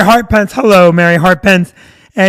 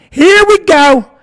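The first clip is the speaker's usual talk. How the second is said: higher, louder, slow sing-song mock on "Here we go"; 8 semitones higher, 7 dB louder, much slower than usual. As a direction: drag out "Here we go" like an eye-roll. Mocking the expected psychic scam.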